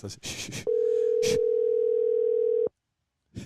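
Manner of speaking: hushed unvoiced shushing; whispering. Real, not acted. Hushing before the call.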